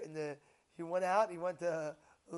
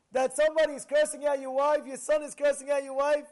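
loud, raised-voice incredulous challenge; heated retold argument; 6 semitones higher, 10 dB louder than usual. Rabbi confronting the father, loud and incredulous. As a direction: push back hard, voice climbing high.

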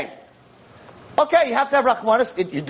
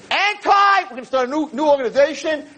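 mock fanfare; 6 semitones higher than usual. Rabbi mocking a new organization, high mock fanfare. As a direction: announce the silly cause.

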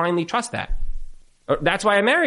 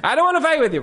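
mock sweetness; 11 semitones higher, much faster than usual. Mocking spouses who say it then fight, high mock-sweet. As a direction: ham up the fake promise of peace. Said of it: "but, uh, but we're fighting".

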